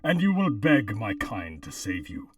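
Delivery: robotic voice filter. Pretend. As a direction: intone it like a cult machine. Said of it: "try reading the copy pasta".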